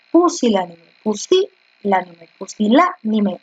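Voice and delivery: pusilánime drawn out, stress on LÁ; slow syllable stress. Shown as a demonstration. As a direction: slowly spell out pusilánime, leaning on LÁ. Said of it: "es una esdrújula". (pusilánime lento, marcando LÁ)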